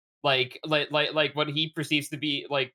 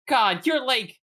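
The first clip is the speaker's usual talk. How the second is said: mock gushing; 5 semitones higher, 3 dB louder than usual. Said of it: "and I'm like".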